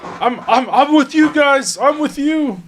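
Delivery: high-pitched scream, desperate to switch sides; panicked screaming. Acted. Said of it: "He starts screaming".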